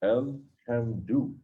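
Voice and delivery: Alhamdu stretched slowly, rising at the end; drawn-out Alhamdu. Retold or imitated. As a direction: linger on Alhamdu as if savoring it. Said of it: "he said".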